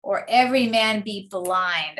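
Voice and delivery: "or every man be blind" low, landing on BLIND; rhyme brought out. Shown as a demonstration. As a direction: lean on "blind" to show the rhyme. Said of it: "the very last line she rhymes again".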